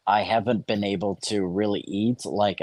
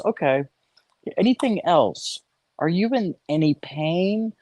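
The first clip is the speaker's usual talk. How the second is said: doctor voice; 8 semitones higher than usual. Retold or imitated. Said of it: "And he goes".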